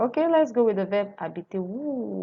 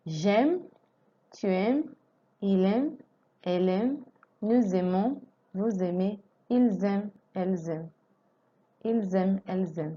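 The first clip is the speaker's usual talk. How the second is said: conjugation drill. Shown as a demonstration. Teacher drills aimer conjugation for students. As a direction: recite each form for repetition. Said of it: "recites conjugation drill again".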